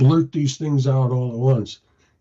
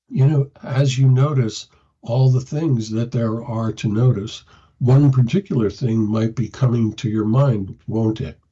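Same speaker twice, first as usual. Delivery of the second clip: soothing voice; 2 semitones lower than usual. Shown as a demonstration. Helper calming a panicking person in a soothing voice. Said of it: "speak to them in a soothing voice".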